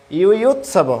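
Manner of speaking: ইউ ইউৎসব with a clear ইউ glide; ইউ ইউৎসব spoken slowly for students; careful pronunciation. Shown as a demonstration. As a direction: split ইউ ইউৎসব syllable by syllable. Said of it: "এখানে হবে ইউ ইউৎসব".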